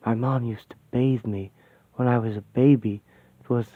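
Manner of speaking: choked-up, fighting back tears. Real, not acted. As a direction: voice catching with emotion. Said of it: "Jesus, I'm getting all choked up".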